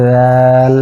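দাল said softly, tongue on the upper teeth; a gentle দাল; light, soft দাল demo; soft dal. Shown as a demonstration. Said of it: "এই হরফটি নরম করে বলতে হবে এইভাবে".

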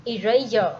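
eraser said as i-ray-zo, falling tune; model word eraser. Shown as a demonstration. Teacher models eraser for pupils to repeat, clear. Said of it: "Các em bắt đầu".

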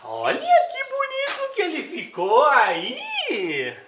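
cooing praise. Real, not acted. Elogiando o pássaro.

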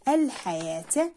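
"الحياة" with the yaa lengthened; long vowel demo. Shown as a demonstration. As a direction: hold the aa in "الحياة". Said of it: "الألف حرف مد".

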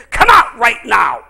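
slow, loud rebuke; commanding shout. Real, not acted. Pastor commanding the deaf spirit to leave, slow loud shout.

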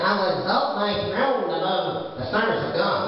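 slow, proud, lightly voiced Lucifer; how Lucifer talks. Shown as a demonstration. Preacher showing the flock how Lucifer speaks, slow and proud. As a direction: draw it out like a self-exalting king, only a touch put on. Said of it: "actually, he talks like this".

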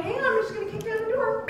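high, loud hammed-up bravado; mock tough cop. Mom telling kid she kicks doors down, mock heroic. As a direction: bark it like you're about to storm in. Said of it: "And I'm like".

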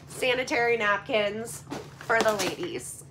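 whisper. Real, not acted. Joking aside about sanitary napkins.

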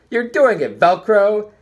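high, loud cheer; shouting. A narrator's reading. Teammate cheering Tiki in the huddle, shouting high. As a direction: yell it in the huddle. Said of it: "slapped Tiki on the shoulder pads and shouted".

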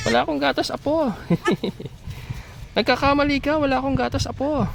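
high, giggly granny voice; high grandma voice. Acted. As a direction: laugh it off as a grandma. Goat grandma voice, laughing.

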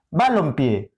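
balompié with the first syllable BA made strongest; stress on BA. Shown as a demonstration. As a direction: test balompié by leaning on BA. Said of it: "¿Y cuál suena más?". (balompié, cargando la voz en ba)

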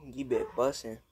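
talking while chewing; words round a mouthful of food; mouth full. Real, not acted. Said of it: "kinda like a mukbang".

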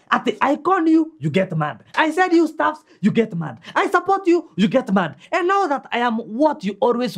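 exasperated complaint. Acted. Accused partner throws grievances back, exasperated. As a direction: list grievances in a see-saw tune. Acted quarrel listing grievances.

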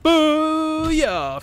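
loud, high victory shout; triumphant cheer. Real, not acted. Gamer celebrating a kill through the wall. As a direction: crow over the kill.

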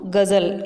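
गज़ल with the dotted ज़ said as a z; nukta pronunciation. Shown as a demonstration. Teacher showing students how the dot changes गज़ल, nukta pronunciation. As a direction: say गज़ल with a buzzing z for the dotted letter. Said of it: "इस तरह से पढ़ रहे हैं".

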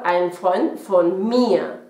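«ein Freund von mir» muy lento, articulado; despacio y claro. Shown as a demonstration. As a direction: dicta la frase palabra por palabra. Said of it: "para aclararlo mejor". (lectura lenta de ejemplo)

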